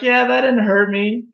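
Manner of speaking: mock nonchalant. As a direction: brush it off like it was nothing. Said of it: "they're gonna act all nonchalant".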